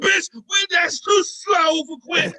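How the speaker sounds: high, slow yell; shouting. Retold or imitated. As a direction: yell it, exasperated. Yelling at slow caller.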